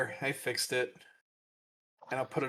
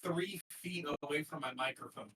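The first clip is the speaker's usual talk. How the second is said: distant, off-mic voice; speaking far from the microphone; cave echo. Real, not acted. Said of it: "You sound like you're in a cave".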